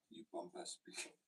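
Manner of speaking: very high, slow French sneer; mock French insult. Retelling a French insult, high mock French accent. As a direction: squeal it like a snooty Frenchman. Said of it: "a French person call me a pompous prick".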